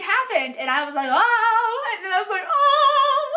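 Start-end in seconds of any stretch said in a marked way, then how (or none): 1.1-1.9 retold emotional "oh". Retelling her emotional reaction to book. 2.5-3.3 retold emotional "oh". Retelling her emotional reaction to book.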